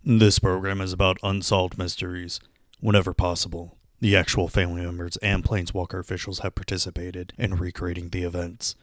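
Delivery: ominous TV mystery narrator voice; hushed, dramatic mystery-show host; vintage horror narrator. Acted. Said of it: "let's listen to a little commercial here".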